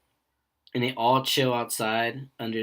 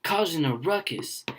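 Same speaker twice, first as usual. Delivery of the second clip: higher, louder mock scolding; hammed-up angry old customer; 8 semitones higher, 4 dB louder than usual. Angry German customer scolding another, a mock angry rant.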